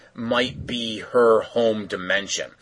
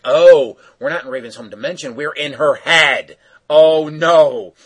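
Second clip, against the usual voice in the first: realizing alarm; 4 semitones higher, 8 dB louder than usual. Retold or imitated. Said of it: "Cyborg's like".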